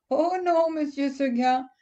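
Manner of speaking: high, quick little goat reply. Acted. Goat answers Monsieur Seguin, high and sweet.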